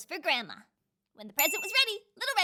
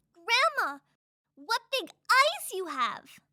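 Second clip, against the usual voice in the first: put-on higher, slow child's marvel; wondering little girl; 4 semitones higher, much slower than usual. Red Riding Hood studying her odd Grandma, high slow wonder. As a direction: drag it out in growing wonder.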